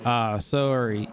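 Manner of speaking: drawn-out Canadian "sorry"; attempted Canadian accent on "sorry". Shown as a demonstration. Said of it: "Tried to do a Canadian accent".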